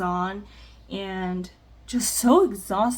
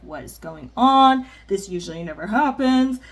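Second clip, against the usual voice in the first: anxious rage; 6 dB louder than usual. Retold or imitated. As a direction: burst out in retold panic and fury. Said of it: "I'm just like".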